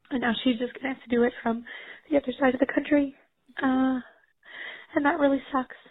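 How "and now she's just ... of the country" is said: a tearful half laugh; real tears through a small laugh; crying. Real, not acted. Caller on the voicemail describing the move, tearful. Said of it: "I am having a breakdown".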